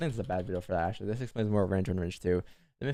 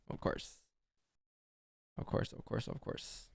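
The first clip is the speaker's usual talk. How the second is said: breathless whispered of course; whispering; 13 dB quieter, slower than usual. Real, not acted. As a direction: whisper it under your breath. Muttered sarcastic aside.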